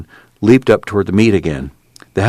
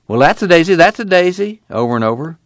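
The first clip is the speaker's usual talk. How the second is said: put-on high, doting old grandma; 8 semitones higher than usual. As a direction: repeat it proudly like a grandma. Grandma voiced, high repetition.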